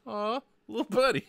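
coaxing a little creature out; cooing. Acted. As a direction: coo reassuringly to a small pet.

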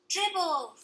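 high shouted name; hollering. A narrator's reading. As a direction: holler it out like a toddler. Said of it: "Fudge hollered".

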